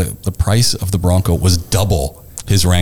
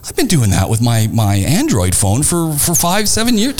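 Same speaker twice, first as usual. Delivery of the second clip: mock exasperation; 6 semitones higher than usual. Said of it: "And I'm going".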